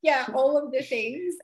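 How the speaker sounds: high, loud, drawn out all of the things; slow, delighted all of the things; excited emphasis. Real, not acted. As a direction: gush over everything he buys. Repeats gushing phrase.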